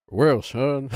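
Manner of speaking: a hint of Arthur Morgan playing dad. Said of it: "That's Arthur Morgan".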